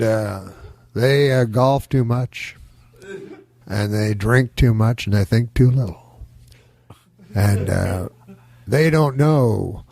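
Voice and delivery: slow, deliberate statesman, lightly imitated; Nixon. Comic continuing his Nixon speech on life's struggle, lightly voiced. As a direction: weigh each phrase, pausing often. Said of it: "do my impression of Nixon".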